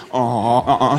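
low acted groan of pain; collapsing groan. Comedian demonstrating his collapse, mock pained groan. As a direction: groan as the body gives out. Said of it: "es passierte Folgendes".

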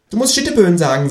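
fast, high-pitched kangaroo; high, bossy talking animal. A narrator's reading. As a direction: prompt quickly in a high creature voice. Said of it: "sagt das Känguru".

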